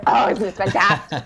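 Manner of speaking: hammed-up Kentucky enthusiasm; Kentucky accent. Shown as a demonstration. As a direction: exclaim in a playful Kentucky accent. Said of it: "you know, Kentucky".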